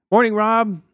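high, loud neighborly hail; called-out greeting. A narrator's reading. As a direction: call across the lawn to a neighbor. Neighbor waves and greets Rob.

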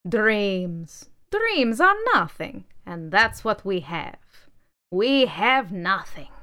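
crush her hope with scorn; glowering manifesto. Acted. Manifesto scorning the doll's dreams, loud and slow. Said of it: "Manifesto glowered".

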